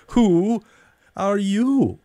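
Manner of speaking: scornful question. A narrator's reading. Caterpillar challenging Alice again, scornful. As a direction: look down on her.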